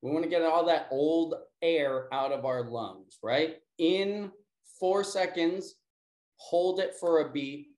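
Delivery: calm, measured breathing instructions; guided breathing. Acted. Teacher guiding the class through breath work, calm and measured. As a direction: count them gently through each breath.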